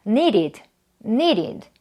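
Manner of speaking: "needed" as two syllables, nee-rid, d tapped; id ending. Shown as a demonstration. Teacher modelling the id rule, "needed" as nee-did. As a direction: say "needed" with a full -id. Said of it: "id로 발음을 해주시면 되고요".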